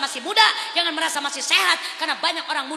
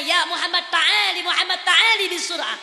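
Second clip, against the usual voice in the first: calling out in Arabic, a little raised; 3 semitones higher, 5 dB louder than usual. Acted. Moses calling Muhammad over, in Arabic. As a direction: call him over in Arabic. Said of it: "Nabi Musa bertanya".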